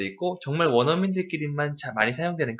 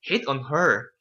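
"hit" punched, "on her" falls away; stress on hit; much slower than usual. Shown as a demonstration. Teacher tells student to put stress on "hit". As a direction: hit the word "hit" hard. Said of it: "강세를 주면서".

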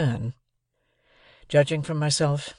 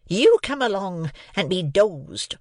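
slow, higher-pitched order from the sister; awful command; 6 semitones higher, slower than usual. A narrator's reading. Sister hauling Pip off by the hair, ominous command. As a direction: pronounce it slowly as a dreaded sentence. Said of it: "nothing more than the awful words".

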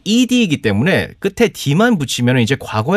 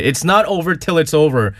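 slow emphatic quote; 3 semitones lower, much slower than usual. Shown as a demonstration. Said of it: "제가 제일 좋아하는 그 표현".

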